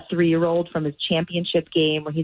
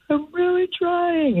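put-on whiny kid voice; 14 semitones higher, slower than usual. Wife imitates crying son.

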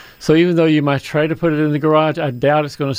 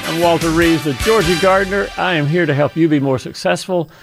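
radio announcer. Acted. Radio show opening.

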